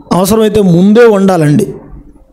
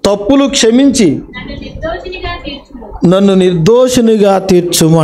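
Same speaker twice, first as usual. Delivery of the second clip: measured reading of a psalm verse with long pauses; solemn Bible verse recital; scripture reading; 3 semitones higher than usual. Shown as a demonstration. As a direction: read the verse out solemnly, phrase by phrase. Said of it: "దేవుడు ఏమంటున్నాడో చూడండి ఒకసారి".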